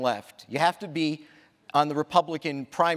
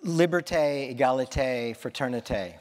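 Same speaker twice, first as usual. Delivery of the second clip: American-accented French. Shown as a demonstration. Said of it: "they pronounce it better than me".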